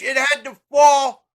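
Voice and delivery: a cry breaking into a shout; angry grief, voice cracking, slow; choked-up shout. Real, not acted. Despair over the country's fate.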